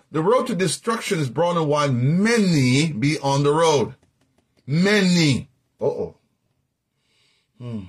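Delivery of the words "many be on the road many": "many" stretched slowly at the front; deliberate, drawn-out emphasis on "many"; stress on many. Shown as a demonstration. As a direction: lean long on "many". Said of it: "underline the word many".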